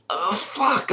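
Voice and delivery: unvoiced muttered aside; whispered curse. Real, not acted. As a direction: whisper it under your breath. Aside after mock quote.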